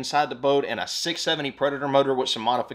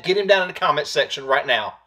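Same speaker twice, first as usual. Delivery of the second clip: usual speaking voice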